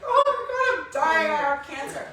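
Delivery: high, loud panicked wail; reliving the panic of finding a lump; panicked cry. Retold or imitated. Woman retelling her cancer scare, loud panicked wail.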